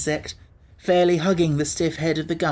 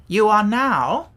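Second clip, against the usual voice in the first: higher, louder, slow solemn start; impressively; 6 semitones higher, 5 dB louder, slower than usual. A narrator's reading. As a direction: make it sound important. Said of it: "said the Wogglebug impressively".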